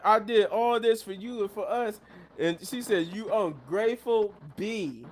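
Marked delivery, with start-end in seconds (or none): 0.0-2.0 higher-pitched mock tirade; acted, raised-pitch reproach; snapping, retold. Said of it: "now she's snapping at Bianca". 3.1-5.1 slow, higher-pitched mock insult; deliberate acted jab; snapping, retold. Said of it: "now she's snapping at Bianca".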